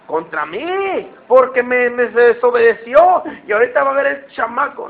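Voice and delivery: mock-angry father muttering a threat; a hint of a fed-up dad about to punish; angry parent. Father complaining his kid disobeyed him, mock-angry threat.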